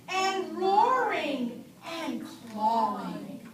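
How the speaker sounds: slow, sing-song storybook reading; lilting read-aloud for little kids; reading to children. Acted. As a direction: read it out to the class like a picture book. Teacher reads picture book aloud.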